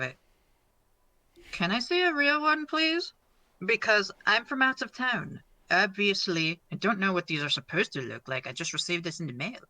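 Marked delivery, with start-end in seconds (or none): 1.5-9.6 high-pitched, wide-eyed pleading; high innocent voice. Acted. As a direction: play dumb in a high voice. Clown pleads innocently with guard.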